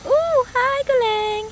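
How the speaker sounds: light up at seeing the cat; excited greeting. Real, not acted.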